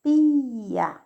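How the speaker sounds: "pia" said loud as two beats, pi then a; "pia" split into pi and a; split syllables. Shown as a demonstration. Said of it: "então pronuncia de novo".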